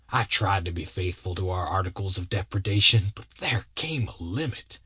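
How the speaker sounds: lightly voiced aggrieved partner, solemn; long-suffering Bill. Bill confesses he sent the boy home, mildly mournful. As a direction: confess with a touch of wounded dignity.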